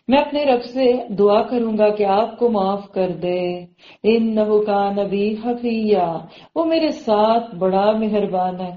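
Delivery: slow, measured promise; forbearing son. Acted. Son promising to pray for father, slow and reassuring. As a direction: promise prayer slowly and assuredly. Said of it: "بیٹا کیا کہہ رہے".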